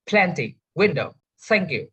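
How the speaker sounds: PLENTY, WINDOW, THANK you, each stressed at the front; first-syllable stress. Shown as a demonstration. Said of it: "first syllables".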